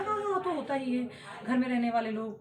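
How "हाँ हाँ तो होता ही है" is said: higher mock agreement; dismissive mimicry. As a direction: imitate someone casually waving it away. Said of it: "मुझसे बात करने वाले लोग".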